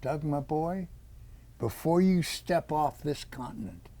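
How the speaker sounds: put-on a light British accent as dad; father's earnest urging, lightly British. British father solemnly charging his son, light British accent. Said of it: "in his British accent said".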